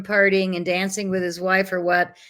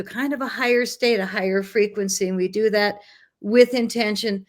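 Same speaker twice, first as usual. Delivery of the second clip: put-on hippie girl voice. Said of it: "said the hippie girl from Boulder".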